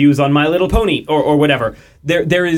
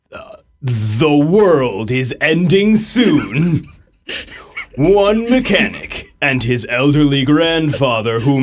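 movie trailer voice. Acted. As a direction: build it like an epic movie trailer. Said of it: "do their best trailer voice".

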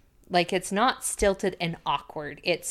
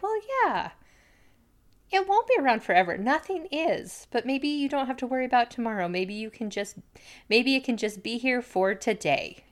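lightly voiced gentle mom, higher; gentle Amy; 4 semitones higher than usual. A woman comforting a teen, lightly voiced gently. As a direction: soften it like a wise mother. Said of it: "Amy's just like".

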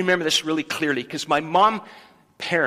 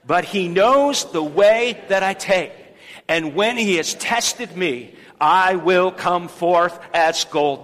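slow, firm group recitation of the verse; leading the church in a slow spoken declaration; loud declaration; slower than usual. Shown as a demonstration. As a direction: declare it out like a creed. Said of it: "Let's say it again".

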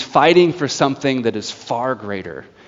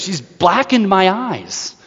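beaten judge; 6 semitones higher, slower than usual. Retold or imitated. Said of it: "that's a boxing phrase".

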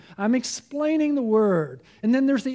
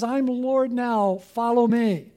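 slow, gently voiced Jesus; a lightly voiced Jesus, slow and calm; Jesus speaking; 4 dB louder, slower than usual. Preacher voicing Jesus calling believers: slow, calm. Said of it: "Jesus says".

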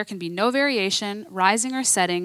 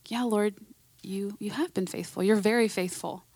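softer, humble reply to God; quiet answer; 6 dB quieter than usual. Retold or imitated. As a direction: answer meekly, half under your breath. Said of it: "I'm like".

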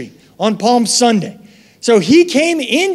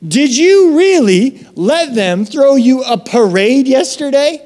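indignant leaders; 5 semitones higher than usual. Retold or imitated. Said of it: "and they say".

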